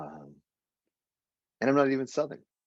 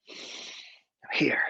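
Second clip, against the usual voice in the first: whispered I'm here, drawn out; hushed inward affirmation; 4 semitones higher than usual. Shown as a demonstration. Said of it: "I invite you all to come here now".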